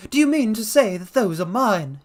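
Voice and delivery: high, loud frightened cry; panicked old man crying out; cried. Acted. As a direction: cry it out half mad with fear. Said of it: "he cried".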